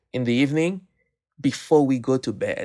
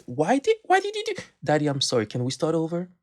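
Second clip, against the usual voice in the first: imitating little girls; 4 semitones higher, faster than usual. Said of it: "my little girls will say".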